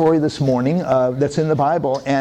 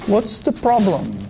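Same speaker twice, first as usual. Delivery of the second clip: gentle Jesus; 2 semitones lower than usual. Acted. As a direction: comfort the troubled man. Jesus answers the man.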